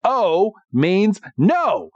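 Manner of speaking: spelled out high, then drawn out slowly; mock-firm refusal, each part set apart; acted smug refusal. Team Rocket refuses to let Ash pass, mock-smug and slow. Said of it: "they're like".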